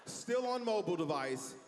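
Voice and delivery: prim snitching lady. Retold or imitated. Passenger reporting him to the attendant, slow and prim. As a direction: drag out the accusation primly. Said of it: "She's like".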